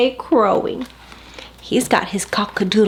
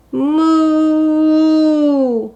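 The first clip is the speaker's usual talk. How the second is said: higher, happy mooing; 6 semitones higher, 4 dB louder than usual. A narrator's reading. Cow with her own sound back, happy moo. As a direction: moo with contentment. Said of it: "went Cow happily".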